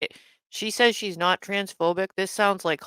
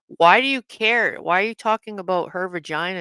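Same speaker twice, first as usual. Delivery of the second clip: indignant. Real, not acted. Indignant challenge during argument.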